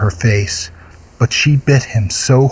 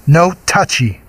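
higher, out-of-breath warning; panting; 8 semitones higher than usual. A narrator's reading. The girl fending off the monster, panting and sharp. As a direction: gasp it out while fighting him off. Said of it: "Mercedes said, panting".

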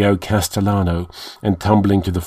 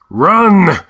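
high, loud shout; cried out; 9 semitones higher, 5 dB louder than usual. A narrator's reading. Red Priest shouting at the soldiers to flee. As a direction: yell the warning. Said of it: "cried the Red Priest".

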